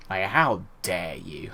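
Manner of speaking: chuckling through a fake how dare you; laughing mock outrage. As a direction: laugh while faking offence.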